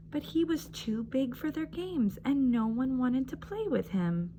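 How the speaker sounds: put-on gentle read-aloud for young children; storybook reading. A narrator's reading. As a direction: read it like story time on the rug.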